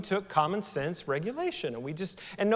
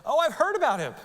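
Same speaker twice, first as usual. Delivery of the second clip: higher beggar realizing; surprised recognition, raised pitch; 11 semitones higher, 5 dB louder, faster than usual. Acted. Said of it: "He's like".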